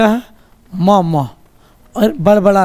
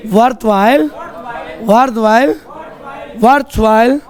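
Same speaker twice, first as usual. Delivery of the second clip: choral repetition drill. Shown as a demonstration. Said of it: "सब कोई बोलेगा".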